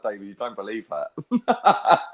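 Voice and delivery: slow, laughing mock disbelief. To his friend David, slow amused disbelief. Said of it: "I was like".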